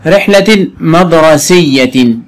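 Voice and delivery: drawn-out phrase reading; slow reading. Shown as a demonstration. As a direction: read slowly, word by word. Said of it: "teacher reads phrase slowly".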